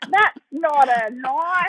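slow, drawn-out mock Australian; mimicked Aussie catchphrase. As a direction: imitate people quoting an Australian film line. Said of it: "people are like, "You're Australian".

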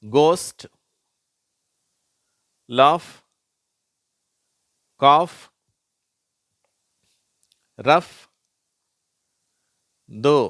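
"கோஸ்ட்" with g, "லாஃப், காஃப், ரஃப்" with f, "தோ" with silent GH; loud, separate "கோஸ்ட், லாஃப், காஃப், ரஃப், தோ"; GH word demo. Shown as a demonstration. Teacher reading GH examples, "கோஸ்ட், லாஃப், காஃப், ரஃப், தோ" projected one by one. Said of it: "அதுல இருந்து படிக்கிறேன்".

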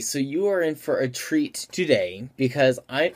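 talking through the hiccups. Real, not acted. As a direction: cut off by a hiccup. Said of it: "oh, I got the hiccups".

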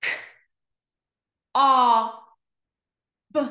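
K, o, b as separate letter sounds; long gaps between K, o and b; sounded out slowly. Shown as a demonstration. Teacher pointing to each dot, K-o-b sounded out. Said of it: "read each word slow".

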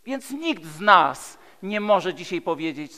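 ordinary delivery

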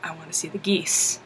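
put-on low soft sulky kid; whiny kid. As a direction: mumble it like a sulking boy. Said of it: "It's like".

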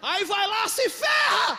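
high, loud preacher yell; shouted punchline. Real, not acted. Preacher yelling the punchline at his congregation, loud shout. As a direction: yell it out to land the joke.

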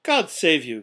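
loud, high hearty greeting; cheerful cry. A narrator's reading. Nephew bursts in on his uncle at Christmas, cheerful cry. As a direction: call it out brightly and cheerily. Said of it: "cried a cheerful voice".

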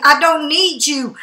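"I don't need you" said slowly, each word laid down firmly; slow it right down so it lands; slow and emphatic. Real, not acted. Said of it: "That's the thing".

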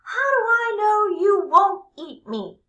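high, loud wary squeak; high cheese man voice, wary; suspicious cheese man. Acted. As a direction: challenge the fox like a nervous little snack.

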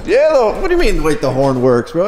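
high, amazed disbelief; can't believe he asked; incredulous. Real, not acted. Incredulous at friend's question.

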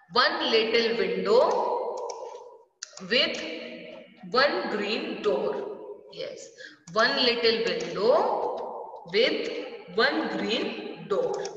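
slow, sing-song poem reading; poem recital. Acted. Teacher reciting the blackboard poem slowly to children. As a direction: read it slowly like a nursery rhyme.

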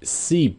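first "sheep" said as "seep", then a true SH "sheep"; S versus SH. Shown as a demonstration. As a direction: contrast "seep" and "sheep" slowly. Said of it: "âm S với lại âm S H". (đọc đối chiếu "seep" với "sheep")

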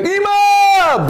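sudden high yell of panic; panicked shout; shouting mom. Retold or imitated. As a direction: scream out for mom as the truck hits. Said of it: "הוא צועק".

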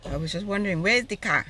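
put-on a light African accent. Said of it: "my African accent coming on".

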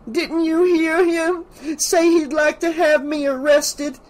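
high, slow, theatrical indignation; imperious. A narrator's reading. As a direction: demand that a bystander back you up. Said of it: "her imperious attitude".

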